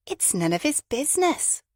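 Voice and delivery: high indignant outburst; bursting out. A narrator's reading. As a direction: blurt it out, indignant. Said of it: "Fabia burst out".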